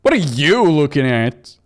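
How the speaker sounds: a loud, hostile snap at the newcomer; gruff challenge. Acted. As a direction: bark it at the stranger. Diner patron snapping at stranger.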